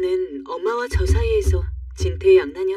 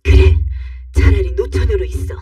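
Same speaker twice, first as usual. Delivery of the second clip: furious acted yell, much louder; loud angry shouting; 7 dB louder than usual. Mother yells back at her daughter, loud and angry. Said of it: "저보다 더 큰 목소리로 이웃집의 목소리가 들릴세라 버럭버럭 소리를".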